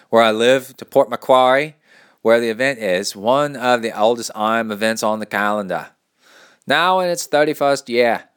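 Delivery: loud, lightly Australian read; a hint of Australian accent; attempted Australian. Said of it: "I'm not doing it right".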